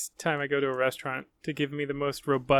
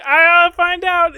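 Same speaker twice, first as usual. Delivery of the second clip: high, loud, slow mock threat; slow menacing meme voice; 13 semitones higher, 12 dB louder, much slower than usual. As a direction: drag it out, hammy menace.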